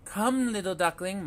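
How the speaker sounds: sing-song calling mother duck. A narrator's reading. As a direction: call them over, mama duck. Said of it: "Mama called once more".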